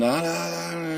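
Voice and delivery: soft, high mock yelling; wordless drawn-out "ah", imitating yelling from another room; imitated distant yelling. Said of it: "You hear him yelling".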